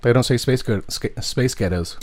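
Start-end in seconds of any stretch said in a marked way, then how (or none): 1.2-2.0 Scottish accent. Shown as a demonstration. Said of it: "a Scottish accent".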